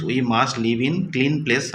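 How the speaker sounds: slow, careful read of the example; slow reading aloud. Shown as a demonstration. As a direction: spell it out slowly for pupils. Teacher reading example sentence. (ধীরে পড়ে শোনানো)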